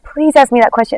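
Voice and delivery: mild retold plea; begging. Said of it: "begging me".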